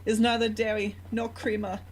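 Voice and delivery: lightly voiced verklempt talk-show hostess; mock-verklempt sketch character; Coffee Talk Jewish lady impression. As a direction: imitate a Jewish lady host, pitched a little up. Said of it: "coffee talk of this Jewish lady".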